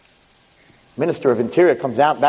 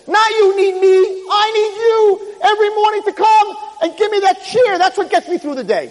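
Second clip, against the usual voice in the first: very high, loud, drawn-out plea; king telling the boy he needs him; emphatic plea; 3 dB louder than usual. Acted. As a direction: stretch it out with feeling. King's heartfelt plea.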